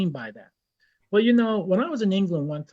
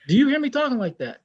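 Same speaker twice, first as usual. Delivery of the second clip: indignant challenge; 5 semitones higher than usual. Retold or imitated. Retold challenge to the brother.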